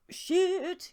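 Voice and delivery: high startled swear; shocked exclamation. Real, not acted. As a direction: blurt it out in shock. Reacting to shocking blurb.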